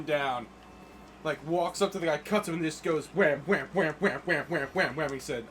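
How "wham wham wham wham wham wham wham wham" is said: rapid-fire repeated "wham"; imitated sword blows. Acting out Mitsuhide cutting a man down, punchy. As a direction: hammer out each blow like a sound effect.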